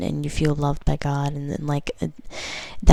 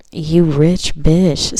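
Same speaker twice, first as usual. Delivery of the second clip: slow, drawn-out mock insult; playful tease; 4 dB louder, much slower than usual. Real, not acted. Reader teasing lucky viewers about money, playful drawl. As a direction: tease them lovingly, slowly.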